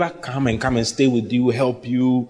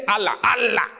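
mock angry shout; 6 semitones higher than usual. Mimicking an angry curser shouting.

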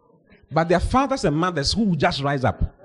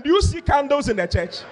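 incredulous; 10 semitones higher than usual. Retold or imitated. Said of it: "So I asked them".

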